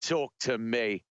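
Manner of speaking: Aussie movie-hero impression; Australian accent. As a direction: quote the film in a put-on Australian accent. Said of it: "Road Warrior, anyone?".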